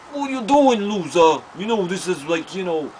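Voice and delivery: put-on high, loud taunting kid voice; mocking bully. Neighbor boy taunting the narrator, high and loud. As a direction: sneer at him like a neighborhood bully. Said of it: "he was like".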